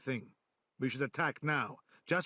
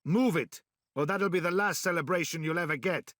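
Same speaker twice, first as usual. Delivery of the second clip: angry order; 2 semitones higher, 3 dB louder than usual. Acted. Ordering slow villagers to hurry.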